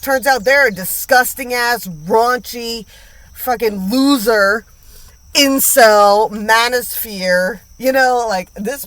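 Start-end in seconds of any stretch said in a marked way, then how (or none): none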